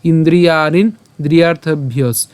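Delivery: "ইন্দ্রিয়াণীন দ্রিয়ার্থে ভিয়স" as one phrase; joined pronunciation. Shown as a demonstration. Teacher demonstrating it together, "দ্রিয়ার্থে ভিয়স" in one flow. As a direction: link "দ্রিয়ার্থে ভিয়স" without a break. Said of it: "একসাথে".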